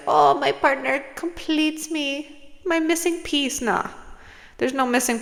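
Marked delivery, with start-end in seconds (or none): 0.1-3.6 mock-swooning, higher and slow; mocking sappy lover. Mocking the Hallmark idea of love with a sappy voice. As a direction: send up the clingy Hallmark romantic. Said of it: "where it's like".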